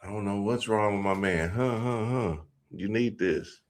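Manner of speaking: put-on soft, coaxing ex-boyfriend; voicing the ex. Ex pouring shots for the wife, soft and coaxing. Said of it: "that nigga start giving her shots".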